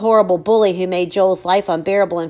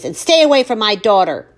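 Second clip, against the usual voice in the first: angry warning; 4 dB louder than usual. Acted. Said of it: "tossing over her shoulder at Chase".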